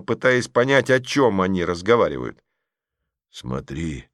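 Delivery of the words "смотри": hushed, low whisper. Acted. Petrov whispers to Masha in the dark cinema, hushed. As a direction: whisper it under the breath. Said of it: "шептал тем временем Петров".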